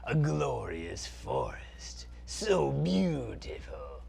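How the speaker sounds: slow, theatrical villain; dark lord. Acted. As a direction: savour every word like an evil prince. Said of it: "Zaltar, Prince of Phantasm".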